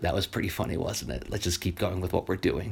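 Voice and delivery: soft, low conspiratorial aside; giggly aside to kids. Retold or imitated. Teacher bending down to share a joke with the kids, soft and low. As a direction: lean in and share the joke quietly. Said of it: "I bend down a little bit and I giggle".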